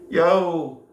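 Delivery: loud high yell across the yard; shouted call. Retold or imitated. Shouting up to the lad on the roof, loud call. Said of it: "And I shouted".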